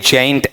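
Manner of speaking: जेंट said with a full vowel, like "jaint"; जेंट with an unreduced e; wrong pronunciation. Shown as a demonstration. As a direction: say जेंट as a full "jent", not "junt". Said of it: "ऐसा नहीं बनेगा".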